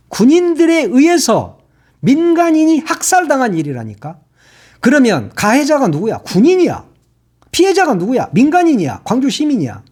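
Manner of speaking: rising, high-pitched outrage; indignant questioning. Real, not acted. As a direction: demand the answer, indignant. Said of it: "말하다 보니까 화가 나잖아". (분개하며 따져 묻는)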